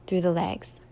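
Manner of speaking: calm, even meditation guide with long pauses; guided meditation. Real, not acted. Yoga teacher leading listeners through a standing meditation, calm guided delivery. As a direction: guide them gently through each step, leaving room to breathe.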